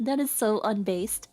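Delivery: casual. Real, not acted. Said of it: "she says so casually".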